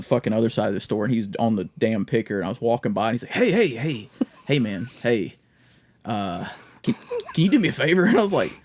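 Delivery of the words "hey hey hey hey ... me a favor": softly imitated cartoon oddball, halting and repetitive; lightly voiced Family Guy type; cartoon-character impression. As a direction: stumble timidly into the request. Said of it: "He sounds like a Family Guy character".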